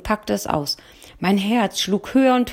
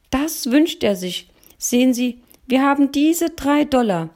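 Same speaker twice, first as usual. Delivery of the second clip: put-on high, louder boyish voice, proud; 6 semitones higher, 4 dB louder than usual. Boy proudly shows his three dollars to the shop owner, high and louder. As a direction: announce it proudly like an eager boy. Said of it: "verkündete er stolz".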